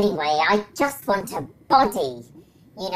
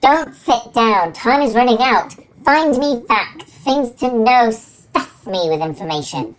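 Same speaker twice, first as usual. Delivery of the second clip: urgent loud demand; 2 semitones higher, 6 dB louder than usual. Acted. Brain urges the carer not to sit, loud and urgent. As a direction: push her, time is running out.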